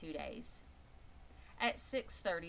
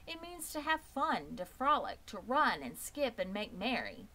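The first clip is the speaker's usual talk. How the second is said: higher, eager pig explaining fun; eager young pig; 5 semitones higher, 4 dB louder than usual. Acted. Wilbur the pig explains play to the rat, eager.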